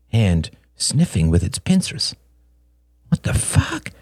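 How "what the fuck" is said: breathless shocked whisper. A narrator's reading. Shane sees the giant wasp, whispering in shock. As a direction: hiss it under your breath in alarm. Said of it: "he whispered".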